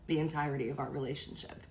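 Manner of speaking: low, fast, weary dismissal; eye-rolling dad. Retold or imitated. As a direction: imitate an unbothered dad rolling his eyes. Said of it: "would just roll his eyes and be like".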